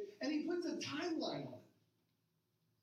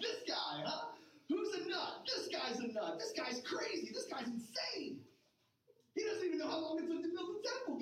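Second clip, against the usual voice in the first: scoffing onlookers, jumping higher with disbelief; mocking crowd; 4 semitones higher than usual. A hint of scornful bystanders jeering at Jesus. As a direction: sneer like a heckler in the crowd.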